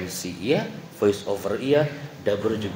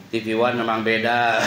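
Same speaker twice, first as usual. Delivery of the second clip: laughing; 3 semitones lower than usual. Shown as a demonstration. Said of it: "Nggak mungkin saya ngomongnya kayak gini".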